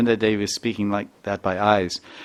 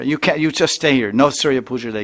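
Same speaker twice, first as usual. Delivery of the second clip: stern mother-in-law; 4 semitones higher, 5 dB louder than usual. Retold or imitated. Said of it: "her mother-in-law came out and said".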